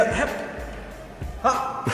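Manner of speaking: short sharp yells; battle cry. Shown as a demonstration. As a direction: shout it out like a fighter. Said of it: "mit dem lautesten Kampfschrei".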